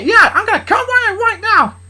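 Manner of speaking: loud, high threatening boast; angry dad squaring up; angry threat. Acted. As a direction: bark the threat at him. Blitz threat continues.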